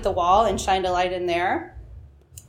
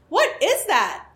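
mock shout; 9 semitones higher, slower than usual. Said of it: "I shouted to my wide-awake friend".

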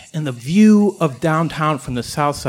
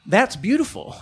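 awed exclamation; 3 semitones higher than usual. Retold or imitated. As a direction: marvel at the skyline, half to yourself. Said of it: "spontaneously, out loud, say".

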